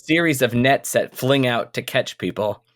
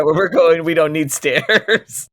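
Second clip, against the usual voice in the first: movie line impression; 4 semitones higher, 4 dB louder than usual. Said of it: "thank you, uh, Back to the Future".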